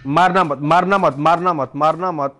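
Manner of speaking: real urgent, insistent repetition; urgent warning. Real, not acted. Player urging teammates not to shoot, urgent warning. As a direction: warn in a rapid-fire string, each one falling.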